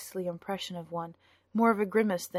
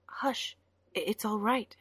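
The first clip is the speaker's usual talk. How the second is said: soothing; 3 semitones higher than usual. A narrator's reading. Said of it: "feeling his heart twist with pity".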